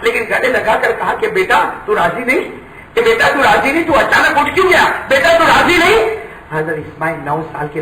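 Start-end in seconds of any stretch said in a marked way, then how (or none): 1.3-6.0 anxious, pleading father; pleading question. Acted. Father anxiously asks his son if he is unwilling, rising plea.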